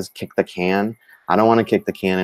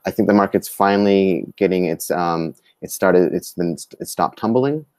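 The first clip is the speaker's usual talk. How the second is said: halting, stuttering restarts. Real, not acted. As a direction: trip over the words and restart. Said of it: "Sorry, I keep stuttering".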